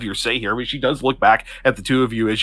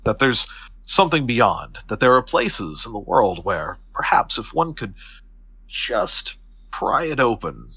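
serious but warm; 4 dB quieter than usual. Acted. Octavia tells Elk of what lies beyond, serious but warm. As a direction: draw him in gently, with measured pauses. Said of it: "she's serious, but she's smiling. There's a warmth".

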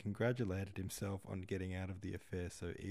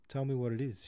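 louder, lifted, gently coaxing; 5 semitones higher, 8 dB louder than usual. A narrator's reading. Nora wheedling Philip to reveal his engagement, coaxing. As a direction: coax him into telling you. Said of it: "she said coaxingly".

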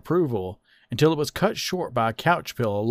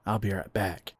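whisper; 2 semitones lower, 7 dB quieter than usual. A narrator's reading. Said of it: "leaned into his boyfriend and whispered".

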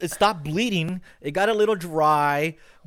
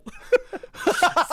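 high laugh; 12 semitones higher than usual. Real, not acted. Laughs at doctor's text.

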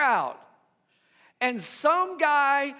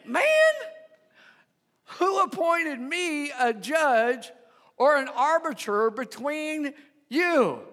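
exasperated Jesus; 4 semitones higher than usual. Acted. Preacher voicing Jesus to a pushy man, incredulous. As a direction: sigh it out like a fed-up teacher. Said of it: "Jesus replied".

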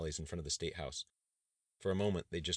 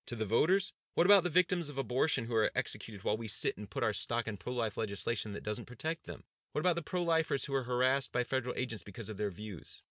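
higher, louder rising tirade; perturbed tirade; 7 semitones higher, 6 dB louder than usual. Acted. Governor rails at his cautious cabinet, angry and loud. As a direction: hammer each question at the room.

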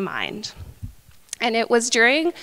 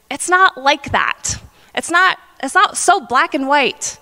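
annoyed; 5 semitones higher than usual. Retold or imitated. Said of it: "being so annoyed".

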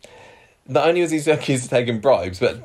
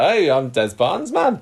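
mock Geordie bloke; 7 semitones higher than usual.

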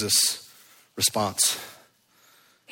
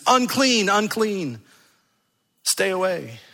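leper's warning cry; 5 semitones higher, slower than usual. Acted.

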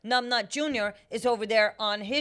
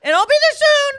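high shout; 10 dB louder than usual. Acted. Joining the loud bit.

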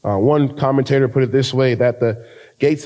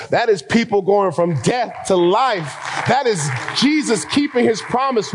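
climbing higher and higher, fervent preacher; preaching at full force; 6 semitones higher than usual. Acted. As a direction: build the sermon to a soaring peak. Rising preaching climax.

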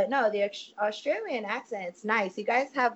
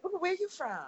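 put-on higher, soft swooning-girl voice; 9 semitones higher, 7 dB quieter than usual. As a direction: play a girl smitten by an accent. Acts girls swooning over an accent.

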